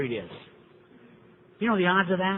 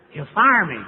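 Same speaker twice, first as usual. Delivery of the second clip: louder alarmed protest; panicked sponsee; 3 semitones higher, 7 dB louder, slower than usual. Retold or imitated. Newcomer tells sponsor he'll be fired, alarmed. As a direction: blurt it out like a scared man.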